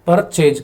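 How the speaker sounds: परचेज split into two beats, पर and चेज; two-syllable demonstration. Shown as a demonstration. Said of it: "दो बार में बोला जा रहा है". (परचेज को दो हिस्सों में, पर-चेज बोलते हुए)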